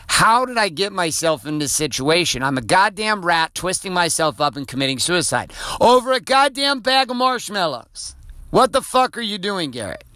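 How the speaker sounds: mock-incredulous self-scolding, stretched and climbing high toward the end; exasperated self-reproach. Man scolding himself over a marshmallow fight, exasperated self-reproach. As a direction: berate yourself in disbelief, slow and drawn out.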